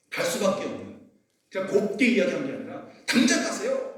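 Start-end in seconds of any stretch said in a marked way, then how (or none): 3.1-4.0 high mock shout, laughing through it; hammed-up shout to leave right now; loud scolding. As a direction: bark them out the door, half laughing. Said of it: "막 이렇게 막 큰 소리로".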